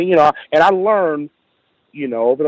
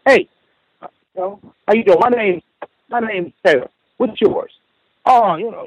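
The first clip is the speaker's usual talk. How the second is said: pointed questions; 7 semitones higher than usual. Retold or imitated. Confronting coworker over a nickname.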